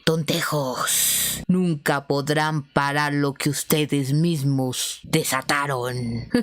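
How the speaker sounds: slow, low and menacing, a hint of a demon; lightly voiced eerie threat; creepy possessed voice. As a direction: drawl it out like a possessed man. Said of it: "mirando extrañamente a todos".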